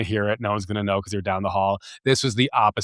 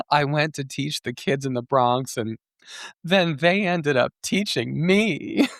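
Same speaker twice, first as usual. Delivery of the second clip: mock cliche; 4 semitones higher than usual. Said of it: "one of those white people who was like".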